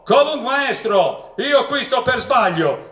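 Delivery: high-pitched mock protest; retold shout. Inmate interrupts the lecturer again, retold shout. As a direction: call it out, imitating an insistent heckler. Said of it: "si alzò di nuovo e gridò".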